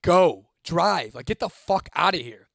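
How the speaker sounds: punchy, loud first words; urgent order, only half yelled; retold urgent yell. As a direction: imitate yelling at the driver to get moving. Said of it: "I'm yelling at Steven".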